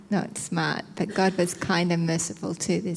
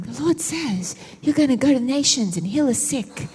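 higher, lightly put-on prophetic voice; prophesying stranger; 5 semitones higher than usual. Preacher voicing strangers who prophesy to her, lightly proclaimed. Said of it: "people started picking me out".

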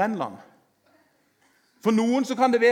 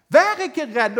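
louder and higher, proclaimed; loud proclamation; 6 semitones higher, 7 dB louder, slower than usual. Acted. Preacher proclaiming to congregation, loud. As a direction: call it out to the hall.

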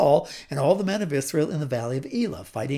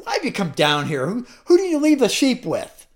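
angry big brother; 4 semitones higher than usual. Acted. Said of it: "he burned with anger".

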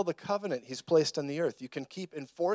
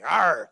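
growling bite noise; 7 dB louder than usual. Retold or imitated. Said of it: "bit at me".

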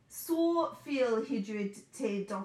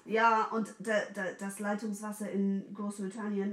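ordinary delivery

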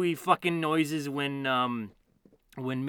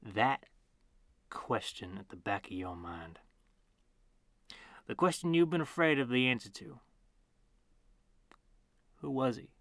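fast eerie whisper; 2 semitones lower, 4 dB quieter than usual. Acted. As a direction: breathe it urgently. Dramatic monologue, whispered.

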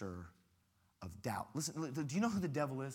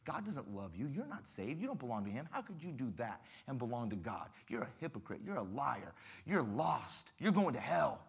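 accuser's voice. Retold or imitated. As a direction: whisper the accusations like the devil. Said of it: "the questions of the accuser".

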